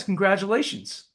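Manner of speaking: high-voiced imitation, falling tune; Walter Payton. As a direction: congratulate in a put-on high voice. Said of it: "Walter had a high voice".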